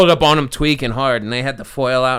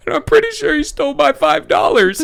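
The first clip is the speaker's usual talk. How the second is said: laughing retelling; 14 semitones higher than usual. Real, not acted. Crying woman, retold.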